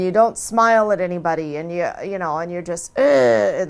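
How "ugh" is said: sour, drawn-out "ugh"; grimacing grunt of displeasure; disgusted grunt. Shown as a demonstration. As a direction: show a scowl in one grumpy noise. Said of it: "like this".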